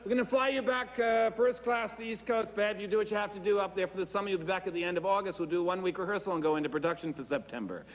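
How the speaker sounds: Hollywood producer. Retold or imitated. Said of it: "But Simon said".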